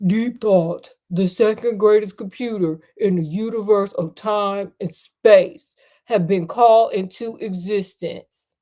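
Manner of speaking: a hint of a deep-voiced soul singer as the computer. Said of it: "It sounds like a deep-voiced soul singer".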